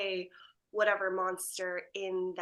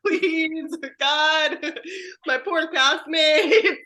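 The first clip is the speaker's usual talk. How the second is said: loud, higher plea broken by laughter; mock pleading; 5 semitones higher, 8 dB louder, much slower than usual. Airing out castmates with fans, laughing mock plea. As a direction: beg dramatically through laughs.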